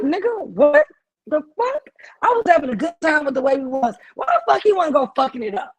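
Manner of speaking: high, rising mock outrage ending in a shout; exasperated inner voice. Woman voices her own outrage at her man, shouting. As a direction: vent it like you can't believe him. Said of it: "a bitch is like".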